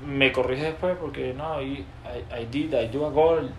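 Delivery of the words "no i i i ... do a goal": put-on halting, clumsy Spanish-accented English; mock his own old beginner English; self-mocking broken English from a footballer. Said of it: "Yo hablaba así".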